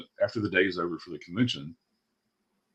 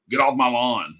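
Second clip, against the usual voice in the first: lightly voiced grumpy old man, a bit higher; a mock old-man grumble, mildly raised; 4 semitones higher, 4 dB louder, slower than usual. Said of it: "sound like the grumpy old man".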